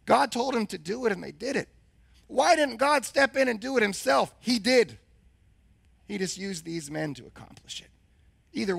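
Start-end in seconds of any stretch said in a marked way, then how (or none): 2.3-5.0 loud. Real, not acted. Preaching rhetorical question.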